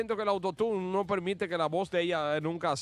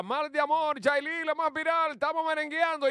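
announcer; 9 semitones higher than usual. Real, not acted. Host presents the new song.

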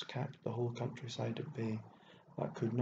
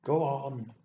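loud, rough call to send someone off; sharp rough shout; rough cry; 3 semitones higher, 6 dB louder than usual. A narrator's reading. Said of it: "she cried out roughly".

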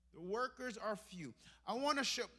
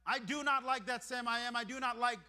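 nasty guy. Pretend. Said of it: "here's how that nasty guy responds".

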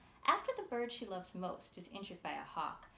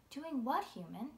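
high, louder start, question rising up; curious Coo; 4 semitones higher, 3 dB louder than usual. Acted. Coo asking the pigeon what the human is doing, curious. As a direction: wonder aloud like a small girl. Coo asks Burr about the face.

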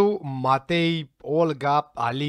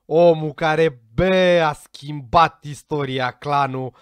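loud emphatic hype; 6 dB louder, slower than usual. Real, not acted. Hyping a key character.

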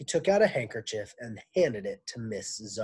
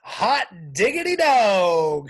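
loud, slow, higher whoop; shout; 8 semitones higher, 13 dB louder, slower than usual. Acted. Damien cheering the news, loud slow shout. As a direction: hoot it out in delight. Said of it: "shouted Damien".

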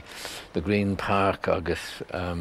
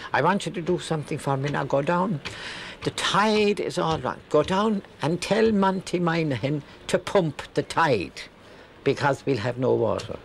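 put-on higher, bossy old landlady giving orders, fast then slowing; imitating Missus Ahern; 8 semitones higher than usual. Landlady pranking the young lodger with a silly errand, bossy high mock voice. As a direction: play the fussy landlady sending the lad on a silly errand. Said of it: "is cuoine Missus Ahern".

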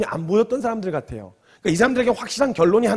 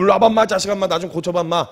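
cocky, bossy mock order; brazen demand; 4 dB louder, faster than usual. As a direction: order them over as if you're the senior. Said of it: "이렇게 배짱을 부릴".

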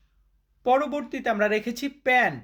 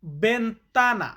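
বেন্তানা drawn out syllable by syllable; slow model word; much slower than usual. Shown as a demonstration. Teacher slowly modelling বেন্তানা for learners to repeat. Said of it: "Spanish শব্দ".

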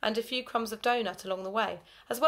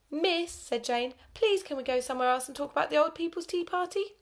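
put-on pleading girl; 7 semitones higher than usual. Nervous girl pleads with teacher.

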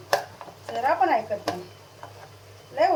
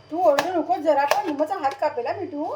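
higher, louder fond telling-off, quickening at the end; scolding the parrot; 5 semitones higher, 5 dB louder than usual. Real, not acted. Cook scolds her squawking parrot, higher and louder. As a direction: scold the bird sweetly but firmly.

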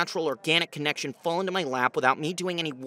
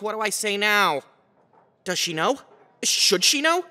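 rising panic; 5 semitones higher, 4 dB louder than usual. Acted.

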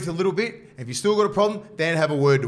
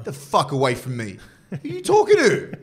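laughing mock outburst; 2 semitones lower, 4 dB louder than usual. Star player snapping at a teammate, laughing mock yell. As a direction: yell it then crack up laughing.

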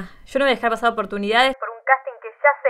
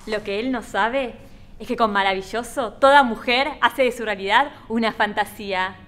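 lightly performed ad read; advert tagline. Acted. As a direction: share the product's secret with the viewer. Detergent commercial tagline to audience.

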